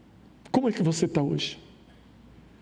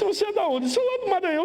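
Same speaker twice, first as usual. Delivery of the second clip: high, lightly voiced young woman; a light hint of the girl's voice; moça brasileira; 13 semitones higher, faster than usual. Diálogo com a moça. (voz aguda leve da moça)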